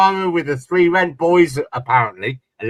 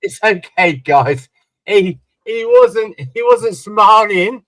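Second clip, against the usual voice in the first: mocking the papers; 3 semitones higher than usual. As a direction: parody a patronising newspaper calming everyone down. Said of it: "they just said".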